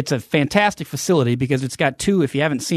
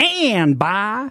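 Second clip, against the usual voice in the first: put-on announcer voice, pitched higher; 7 semitones higher than usual. Joining in on the sponsor bit, doing the old CBS Sports announcer voice. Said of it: "Remember that old CBS Sports voice?".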